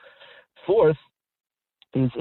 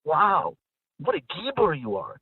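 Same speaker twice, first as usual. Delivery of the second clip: admiring; 4 semitones higher than usual. Retold or imitated. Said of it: "What I'm saying is".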